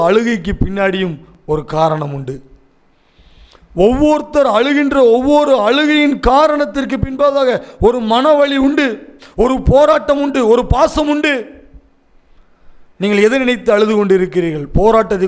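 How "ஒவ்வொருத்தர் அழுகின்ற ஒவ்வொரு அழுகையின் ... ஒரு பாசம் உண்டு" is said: high, mounting list of phrases; fervent preaching. Real, not acted. Preacher names the pain behind each one's tears, high and fervent. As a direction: pile up each cause with rising fervour.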